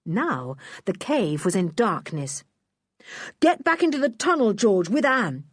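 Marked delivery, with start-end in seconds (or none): 3.4-5.4 yelled order. Acted. Julian ordering George back into the tunnel, yelling fast. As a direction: shout the girls to safety. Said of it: "yelled Julian".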